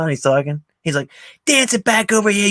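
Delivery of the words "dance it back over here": loud, high retold order; raised-voice mock threat; imitated taunting command. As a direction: call it out like a gunman giving orders. Acting out Tommy threatening Spider.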